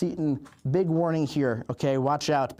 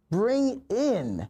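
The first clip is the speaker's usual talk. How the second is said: slow dramatic build; 5 semitones higher, much slower than usual. Acted.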